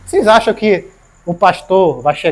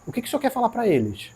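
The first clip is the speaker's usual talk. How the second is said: retold prayer; 3 semitones higher, faster than usual. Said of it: "a minha oração é".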